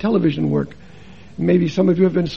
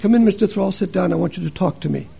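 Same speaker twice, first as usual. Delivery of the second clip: soft therapist voice; 3 semitones lower, 5 dB quieter than usual. Retold or imitated. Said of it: "She said".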